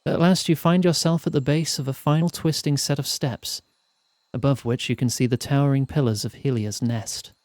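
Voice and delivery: measured, evenly paced storyteller; story narration. A narrator's reading. Narrator telling players of a perilous mountain climb, storytelling. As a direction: read it out like an audiobook narrator. Reads the game's narration aloud.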